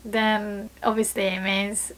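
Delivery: ordinary talk, nothing marked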